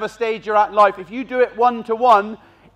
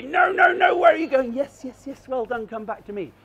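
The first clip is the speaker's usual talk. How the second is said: clear contrast; 4 semitones higher than usual. Shown as a demonstration. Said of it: "You've gotta make it very clear".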